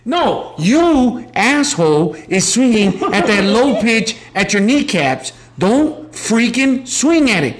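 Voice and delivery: high yelling coach, laughing; harsh coach voice. Shown as a demonstration. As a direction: bark at the batter like a coach. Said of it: "Constructive criticism".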